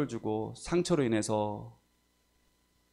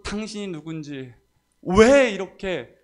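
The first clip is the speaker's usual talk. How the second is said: high mock rant with a drawn-out, louder "why"; retold frantic ranting; 7 semitones higher, 7 dB louder, slower than usual. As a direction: imitate a frantic demand, pitch raised. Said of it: "미친 사람처럼". (미친 사람처럼 따지던 말을 높게 흉내)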